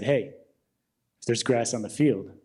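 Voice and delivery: put-on old gym creep leering at a young woman, low and slow; creepy old man. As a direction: croon it like a lecherous old man. Old man voiced again.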